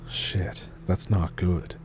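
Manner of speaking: hushed, breathy dread; worried whisper. Acted. Cousin in the dark attic, afraid for grandpa, whispering. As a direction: whisper it like bad news.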